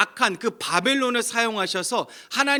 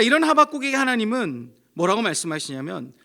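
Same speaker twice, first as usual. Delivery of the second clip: normal talking voice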